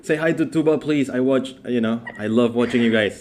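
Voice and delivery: put-on excited fan girl. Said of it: "she was like".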